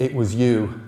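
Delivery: put-on loud, accusing girl's voice; girl's accusation. Girl accusing Bod in the churchyard, loud. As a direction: jab the words at him. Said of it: "said the girl".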